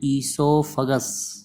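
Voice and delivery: ईसोफेगस said ee-so-fe-gus, the first o silent; teacher showing the silent o in ईसोफेगस; silent o esophagus. Shown as a demonstration. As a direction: say ईसोफेगस starting on ee, no o sound. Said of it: "ओ को silent करेंगे".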